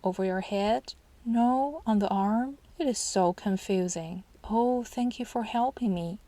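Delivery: lightly played incompetent fool; playing the silly fool. Shown as a demonstration. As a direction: ham up a befuddled parent a little. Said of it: "pretend to be silly".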